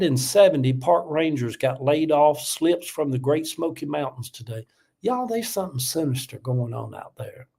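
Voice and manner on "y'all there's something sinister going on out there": whispered, conspiratorial warning; hushed warning. Real, not acted. Whispering a warning to his TikTok viewers. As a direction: lean in and whisper it like a secret.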